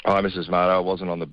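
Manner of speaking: low, croaky, guilty read; croaky voice of a man who was on the beers; croaky lying voice. Real, not acted. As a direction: sound hoarse and caught out. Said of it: "that's your lying voice, your croaky voice".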